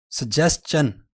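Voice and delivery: सजेशन with "chun" ending, sədʒestʃən; correct pronunciation. Shown as a demonstration. Teacher demonstrates correct सजेशन. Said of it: "दोनों में इस लफ्ज़ को सजेशन पढ़ा जाता है".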